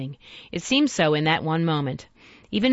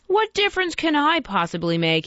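a higher, pleading question; imploring; 8 semitones higher than usual. Acted. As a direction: plead with him, a touch desperate. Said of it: "he implored".

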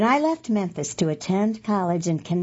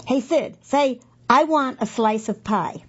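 higher-pitched quoted request from friends; teasing friends' request; 5 semitones higher than usual. Retold or imitated. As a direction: lightly act out friends egging someone on. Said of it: "My friends would ask me to pronounce".

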